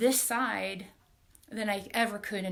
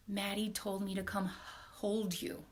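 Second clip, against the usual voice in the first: softer, hushed retelling of the whisper, still voiced; retold whisper; 6 dB quieter than usual. Retelling what the leader whispered in her ear, a soft hush. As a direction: pass the message on gently, half-whispered. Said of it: "she whispers in my ear".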